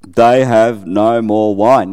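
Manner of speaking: slow and deliberate, falling on wine; slow repeated line. Shown as a demonstration. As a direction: let "wine" sink at the end, unhurried. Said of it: "'They have no more wine.'".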